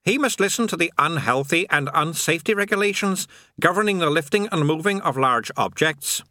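lightly voiced high demon; chirpy little demon trill. A narrator's reading. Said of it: "it trilled".

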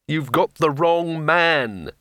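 desperate moaning plea, slow. Acted. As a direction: moan it out, pleading. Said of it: "he moaned".

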